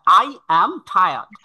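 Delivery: loud, very slow teaching demo; a bit loud. Shown as a demonstration. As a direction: sound each word out loudly. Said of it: "সাউন্ডটা একটু loudly বলতে হবে". (একটু জোরে, ধীরে ধীরে উচ্চারণ)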